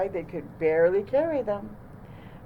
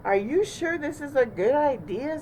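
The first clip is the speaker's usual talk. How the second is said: Porcupine voice; 7 semitones higher than usual. A narrator's reading. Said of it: "said Porcupine".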